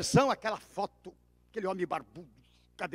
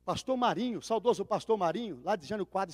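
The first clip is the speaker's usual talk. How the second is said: ordinary talk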